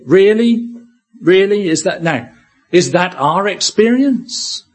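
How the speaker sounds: high, questioning disbelief; incredulous. Acted. Preacher doubting we count temptation joy, incredulous. Voicing doubt at James's command.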